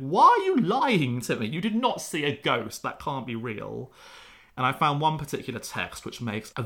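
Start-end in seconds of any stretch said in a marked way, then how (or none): 0.1-3.9 incredulous doubter. Retold or imitated. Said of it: "just going".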